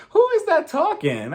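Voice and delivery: high-pitched, laughing disbelief; mock bewilderment. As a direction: act baffled by a mystery voice, barely holding the laugh. Laughing at silent guest's sudden speaking.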